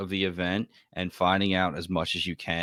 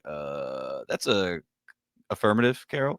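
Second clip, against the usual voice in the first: pilot voice. Retold or imitated. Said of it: "pilot giving his classic pilot voice".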